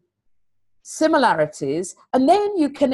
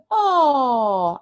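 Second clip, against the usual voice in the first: patronizing oh; 4 semitones higher than usual. Retold or imitated. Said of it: "the patronizing kids in Banbury going".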